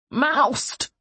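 high-pitched shout for help; thick shout. A narrator's reading. Beaten man to his servant, shouting thickly. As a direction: shout the name through a bloody mouth. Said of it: "he shouted thickly".

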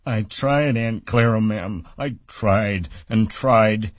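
high, slow mocking whine; mock his excuse; aunt mimicking Lennie. A narrator's reading. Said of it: "she interrupted him".

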